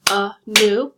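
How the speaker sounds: "Anew" split into two clear syllables, a-new; stressing "Anew" to show its two beats. Shown as a demonstration. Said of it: "The word anew is two syllables".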